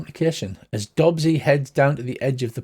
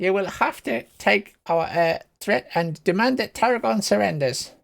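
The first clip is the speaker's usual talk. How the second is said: defiant general; 6 semitones higher than usual. Acted. General answers threat with demand.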